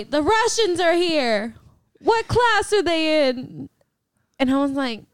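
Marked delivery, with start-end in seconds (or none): 0.0-3.7 slow, drawn-out quote of a sleep-talker; retold sleep-talking mom. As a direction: draw it out like mom calling in her sleep. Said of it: "I hear my mom say".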